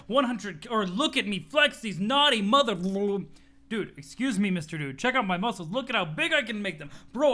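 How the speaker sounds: boastful gym bro showing off; a lightly voiced bragging bodybuilder; muscle bro. Muscle bro to his friend Dirk, lightly voiced boasting.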